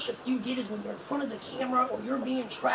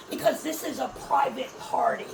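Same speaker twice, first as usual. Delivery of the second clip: ordinary delivery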